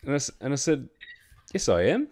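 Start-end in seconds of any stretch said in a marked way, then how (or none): 1.5-2.1 high, firm insistence; insistent. Retold or imitated. To the coworker who says she's not rostered, indignant. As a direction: dig in, sure of yourself.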